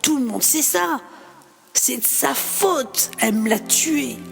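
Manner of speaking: pointed, hard blame; bitter accusation. Acted. Marc blaming the mother in front of the doctor. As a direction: spit the blame at her.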